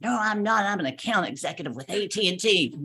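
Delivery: retold snap of denial, firmly defensive; indignant denial. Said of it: "I snapped".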